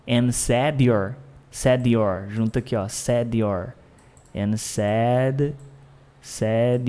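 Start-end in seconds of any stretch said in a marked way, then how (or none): 0.1-3.7 "said you're" joined into one sound, sedjor; linked said you're. Shown as a demonstration. Teacher linking "said you're" into one sound. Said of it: "Então, um som só".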